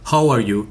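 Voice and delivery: How are you with a clear English how; English pronunciation. Shown as a demonstration. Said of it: "que es la pronunciación". (How are you con pronunciación inglesa)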